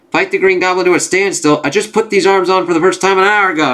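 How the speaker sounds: high-pitched, exasperated echo of an order; incredulous protest. Acted. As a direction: balk at an absurd order. Arm wearer balks at brain's order.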